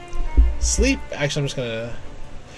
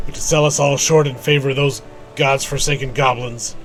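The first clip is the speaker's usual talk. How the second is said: quest-giver reading. Acted. Quest giver warning the player about a two-gil cheat, lightly acted. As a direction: read out the quest-giver's lines in character. Reads quest character's dialogue.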